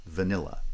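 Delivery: vanilla with the middle syllable stressed; light first syllable of vanilla, stronger second. Shown as a demonstration. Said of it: "so it gets stressed".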